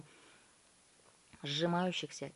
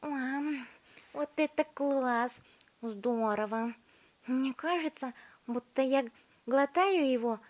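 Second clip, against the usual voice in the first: put-on relishing girl; 7 semitones higher than usual. A narrator's reading. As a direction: gulp and gush about the pie. Violetta relishing the pie.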